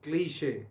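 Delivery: "क्लीशे" said clearly as klee-shay, stress on the end; careful pronunciation. Shown as a demonstration. Teacher asks students to listen closely to "क्लीशे". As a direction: model "क्लीशे" slowly for the class. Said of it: "आप इसको ज़रा गौर से सुनिए".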